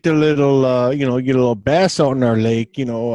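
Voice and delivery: lightly put-on Yooper fisherman; half-hearted Yooper accent. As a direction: attempt a Yooper accent, not quite convincingly. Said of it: "I can't do one worth a shit".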